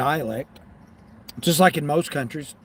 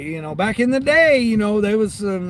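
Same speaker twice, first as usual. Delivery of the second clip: higher, louder sly wink of a line; coy teasing; 6 semitones higher, 4 dB louder than usual. Real, not acted. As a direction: tease it like a secret. Coy hint at past adventures.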